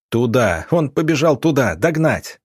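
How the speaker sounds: acted urgency, pointing out the fugitive; urgent command. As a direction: send them off in pursuit. Urgent orders during a chase.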